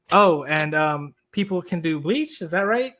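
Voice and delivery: imitating someone unsure, "bleach" lifted into a question. Retelling a politician's remark to co-host, questioning rise on "bleach". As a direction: raise the end of "bleach" and "right" like a question. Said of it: "his voice went up at the end as if it was a question".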